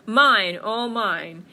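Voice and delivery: loud, greedy bear gloat. Acted. Bear distracted by his apples, gloating. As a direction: hit the first word very hard.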